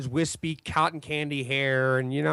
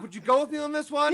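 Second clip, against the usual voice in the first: good cop; 10 semitones higher than usual. Acted. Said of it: "I'm trying to be good cop".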